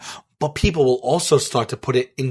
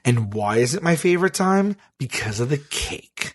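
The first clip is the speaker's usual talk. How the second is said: measured, deliberate mock pitch; mock pondering. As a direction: pitch it as if musing aloud. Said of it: "And you were talking like this?".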